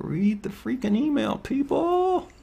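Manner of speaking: very high, strained, squeezed-out exasperated squeal.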